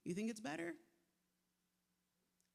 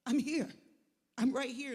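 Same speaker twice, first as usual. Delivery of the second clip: Jesus reassuring; 5 semitones higher, 10 dB louder than usual. Retold or imitated. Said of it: "I can hear Jesus saying".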